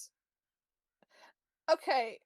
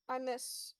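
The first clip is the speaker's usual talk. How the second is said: tearful. Acted. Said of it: "he's trying not to cry and kind of failing".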